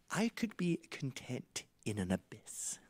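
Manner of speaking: imitating dad. Dad's freebie quote about contentment, whispered in imitation. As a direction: whisper it gravely as the father. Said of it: "an extra, but he goes".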